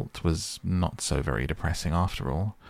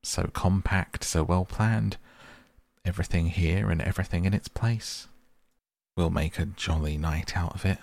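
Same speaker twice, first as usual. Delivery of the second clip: cheerful bustling. Acted. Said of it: "he called out cheerfully".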